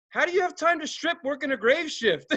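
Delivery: high-pitched owner imitation; incredulous. Owner asking how she has time, high incredulity. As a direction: puzzle it out high, cracking up at the end.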